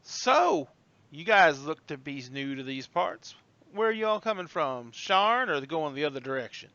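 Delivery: lightly drawled Southern hostess; Southern hostess accent. Acted. Hostess sizing up newcomers, light Southern accent. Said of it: "You throw on that accent".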